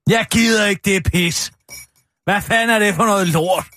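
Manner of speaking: irritated, indignant rant; grumpy. Acted. Kirsten rants about journalists to the room, grumpy. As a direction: complain sourly, question after question. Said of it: "Virker en lille smule sur".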